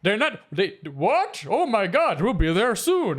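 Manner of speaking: put-on surprised old man on the phone; grandpa voice. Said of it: "That's your grandpa voice?".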